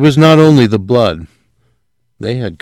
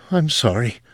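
whispered; 2 semitones higher, 6 dB quieter than usual. A narrator's reading. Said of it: "Sylvia whispered".

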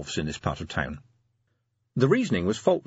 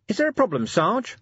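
anxiously; 11 semitones higher than usual. A narrator's reading. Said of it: "said Nobby anxiously".

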